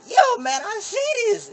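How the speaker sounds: high, loud excited yell; loud and high, barely containing it; hyped reply. Retold or imitated. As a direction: shout it out, amped.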